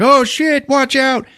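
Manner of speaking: high yelping alarm; mock panic. Blades stabbing through the elevator roof, high panicked yelp. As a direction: shriek a warning.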